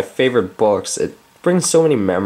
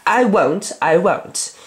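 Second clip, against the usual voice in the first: put-on high, slow, whiny little boy; Michael's voice; 8 semitones higher, much slower than usual. Reader voicing little Michael refusing bed, high and whiny. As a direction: whine it like a stubborn small child. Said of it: "So Michael now speaks".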